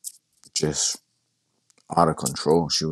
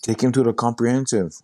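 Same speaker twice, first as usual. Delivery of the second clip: mild, higher-pitched imitated yell; retold yell; 6 semitones higher than usual. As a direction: lightly mimic a friend calling out urgent orders. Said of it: "I hear my friend yell".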